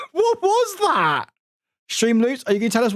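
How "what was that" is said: high, slow, voice-changer distortion; secret voice filter. Real, not acted. Streamer baffled as a voice changer kicks in, pitched up and slow. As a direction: sound pitched up by a stream voice effect. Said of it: "It did a T T S in a secret voice".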